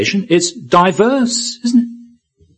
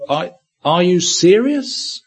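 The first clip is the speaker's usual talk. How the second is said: slow, raised, doubting question; incredulous question; 4 semitones higher, slower than usual. Acted. Congregation questioning the apostle James, mildly incredulous. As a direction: question it in mild disbelief. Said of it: "perhaps the question for him would be".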